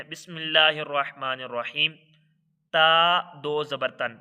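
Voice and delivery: measured recitation opening the drill. Shown as a demonstration. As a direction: recite it evenly and clearly. Recites bismillah then drill. (ٹھہر کر تلاوت)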